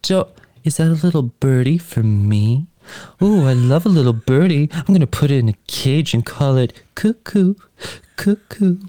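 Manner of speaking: Marilyn voice. Pretend. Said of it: "It's just my Marilyn voice".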